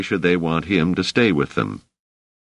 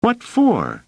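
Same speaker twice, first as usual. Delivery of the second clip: put-on very high, indignant kid's voice; squeaky boyish protest; struggling boy. A narrator's reading. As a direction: demand it while struggling. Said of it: "panting and struggling".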